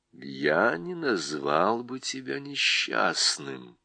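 put-on a wise old voice, unhurried. Голос Льва. (низкий ласковый голос)

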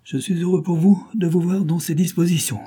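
a gloating crook bragging to his prisoner; a hint of a menacing criminal; gang boss Thompson. A narrator's reading. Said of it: "dit Thompson".

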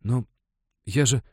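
put-on frightened boy mumbling a reply; babbling. A narrator's reading. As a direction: stumble over the words in fright. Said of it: "пролопотал Вахитика".

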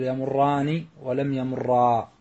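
slow يمران and يمرا, r held doubled, long aa; fuse the r's in يمران and يمرا; merged double r. Shown as a demonstration. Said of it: "يجب فيها الإدغام". (يمران ويمرا براء مشددة مدغمة وبتمهل)

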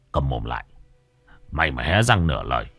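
low menacing master; menacing threat. Acted. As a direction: threaten the servant coldly. Master threatens servant Hải.

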